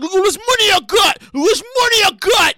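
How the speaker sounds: mock braggart yelling about his money; boastful flexing. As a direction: flash the cash, hammed-up brag. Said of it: "and he's like".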